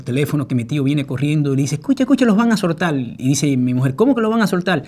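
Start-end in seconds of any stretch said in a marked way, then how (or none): 1.8-3.0 high, loud excited calling; excited news. Retold or imitated. Uncle running to the phone, excitedly calling out. 3.9-4.8 high, loud astonished question; can't believe what she's hearing; surprised disbelief. Retold or imitated. Wife on the phone, surprised and high.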